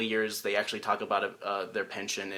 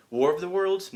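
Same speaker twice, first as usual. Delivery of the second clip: puzzled question; 7 semitones higher, 5 dB louder than usual. Acted. Acts a confused moviegoer's question.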